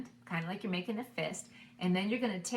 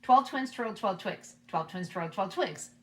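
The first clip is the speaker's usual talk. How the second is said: faster; 3 dB louder than usual. Shown as a demonstration. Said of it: "Here we go faster".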